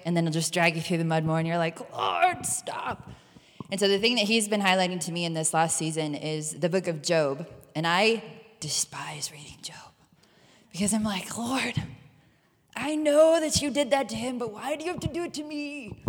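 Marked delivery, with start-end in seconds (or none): 1.9-3.1 exasperated plea. Retold or imitated. Pleading with the Lord, exasperated. 11.3-16.0 high, pleading whine; whiny complaint. Retold or imitated. Congregation member voicing her protest to the Lord, whiny.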